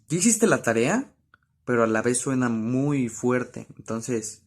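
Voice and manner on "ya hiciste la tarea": higher, sharper scolding question; a mom scolding about homework; scolding parent. Shown as a demonstration. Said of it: "cuando nos regañan".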